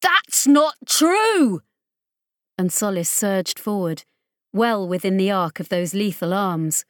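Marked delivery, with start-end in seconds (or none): 0.0-1.6 high pleading woman. Acted. Woman protests unfairness.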